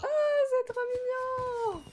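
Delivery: couinement aigu et étiré d'émotion; cri attendri. Real, not acted. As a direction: fondre de tendresse en s'exclamant, très aigu et lent. Scène de nouvel an attendrissante. (cri aigu et attendri)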